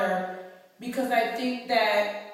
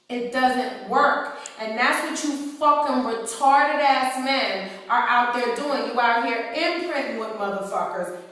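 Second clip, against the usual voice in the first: louder, worked-up scolding; heated rant; 2 semitones higher, 4 dB louder than usual. Real, not acted. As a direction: tear into them, voice raised.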